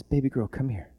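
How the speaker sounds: put-on soft, gentle call to a child; tender. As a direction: coax her gently, like a parent. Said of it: "The tenderness, the kindness in his voice".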